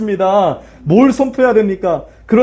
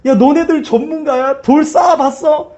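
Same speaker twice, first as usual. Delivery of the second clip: higher, sneering taunt of amateurs; mocking jeer; 5 semitones higher than usual. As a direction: jeer at them, pitched up. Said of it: "하면서 지금 막 조롱하고 있는 거예요". (높은 톤으로 비웃는 조롱)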